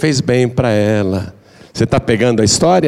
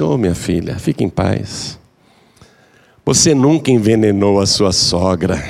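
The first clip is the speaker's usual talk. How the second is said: calm wise man; 3 semitones lower than usual. Retold or imitated. Wise man calms the woman.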